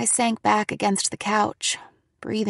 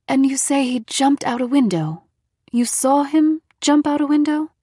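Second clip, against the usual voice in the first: higher, louder skeptical questions; doubtful questioning; 5 semitones higher, 4 dB louder than usual. A narrator's reading. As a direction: press her with disbelief.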